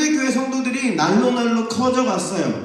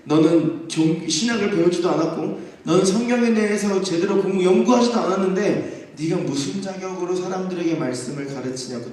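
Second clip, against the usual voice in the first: mock outraged grilling; indignant interrogation. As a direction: demand who he thinks he is. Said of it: "따지는 거예요".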